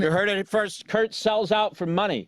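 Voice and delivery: hammed-up tabloid announcer; mock announcer. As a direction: announce it like breaking gossip. Mock headline about Kurt.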